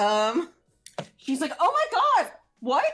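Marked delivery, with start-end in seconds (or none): 1.6-2.9 mock panicked, alarmed cry, higher pitch. Voicing a character who sees someone drowning: gasping in panic, like the other guy. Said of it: "I sounded like the other guy".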